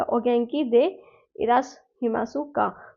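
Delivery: "ओगेंकी दे इरासहिमासुका" slow, careful, falling; formal phrase to a teacher, slow and careful; formal Japanese. Shown as a demonstration. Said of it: "formal tone में".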